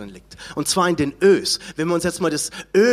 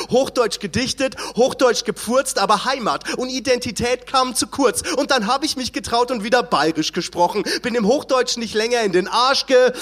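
rhythmic spoken-word poem recital; proud dialect poem, rhymed and punchy. Acted. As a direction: recite it like a defiant rap poem. Recites his own poem.

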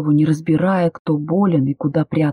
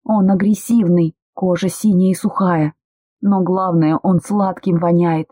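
unrestrained, rising panic, a touch louder; loud hysterics. Acted. Woman panics over the sick body, mild loud hysterics. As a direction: lose control and spill it all out. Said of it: "Громко, не сдерживаясь, истерила я".

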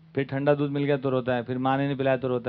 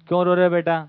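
a touch louder, a mother's concerned question; mother asking; 6 dB louder, faster than usual. Retold or imitated. Mother to crying child, lightly voiced concern. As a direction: ask the crying child what's wrong.

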